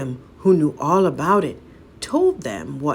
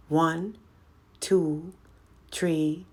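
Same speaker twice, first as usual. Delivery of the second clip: counting; 3 dB quieter, much slower than usual. Acted. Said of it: "she counted".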